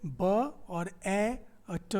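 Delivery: "ब", "ए", "ट" given as single sounds; name each sound apart, "ब", then "ए", then "ट"; slow separate sounds "ब", "ए", "ट". Shown as a demonstration. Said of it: "यहाँ पे कितना है".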